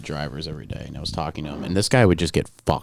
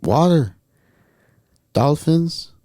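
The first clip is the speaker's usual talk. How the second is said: high, halting mock Salvadoran accent, long pauses between phrases; wasted driver's Salvadoran accent, pitched up; Jose's Salvadoran accent; 7 semitones higher, 4 dB louder, slower than usual. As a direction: imitate bare-bones English in a Salvadoran accent. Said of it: "I'm gonna do the accent".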